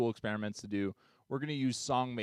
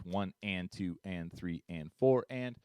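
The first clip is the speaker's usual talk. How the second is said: slow, even count of "One and two and"; spoken "and" between each beat; counting eighth notes. Shown as a demonstration. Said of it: "I can get eighth notes".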